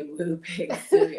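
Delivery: mock Razorback cheer; hog call. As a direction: holler the end of the hog call. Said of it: "So I had to say".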